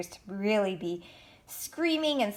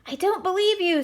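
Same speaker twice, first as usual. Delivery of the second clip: higher, louder accusing cry; mock scream; 11 semitones higher, 4 dB louder than usual. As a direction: shout your disbelief. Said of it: "screamed the six-foot monster".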